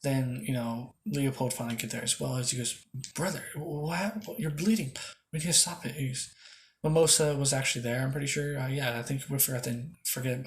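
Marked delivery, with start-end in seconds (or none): 3.1-5.9 alarmed brother. Acted. Leopold finds brother bleeding.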